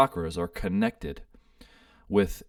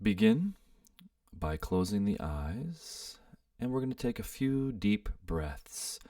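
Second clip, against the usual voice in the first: soft, unhurried meditation guide with pauses; guided meditation; 5 dB quieter than usual. Real, not acted. Host guiding listeners to sit and breathe, guided meditation. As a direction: gently lead them into stillness, leaving space between phrases.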